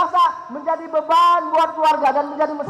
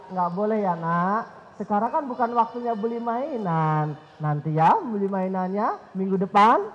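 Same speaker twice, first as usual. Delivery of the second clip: soft, lower father's refusal; gentle father; 6 semitones lower, 5 dB quieter than usual. Retold or imitated. Father softly refusing child's toy request, lightly voiced. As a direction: turn the child down softly and kindly. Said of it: "Lalu ayahnya bilang".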